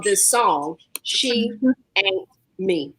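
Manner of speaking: the song title drawn out slowly, word by word; emphatic song title. Real, not acted. Host introducing her cousin's song, the title said with slow emphasis. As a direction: lean slowly on the title, pausing before the second word. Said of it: "You put some emphasis on that".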